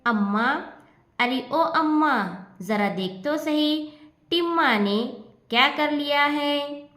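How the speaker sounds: calling her mother from the doorway. Acted. Daughter calls her mother in the back room, calling out anxiously. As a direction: raise the voice to reach the next room. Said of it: "अपनी माँ को आवाज़ देती है".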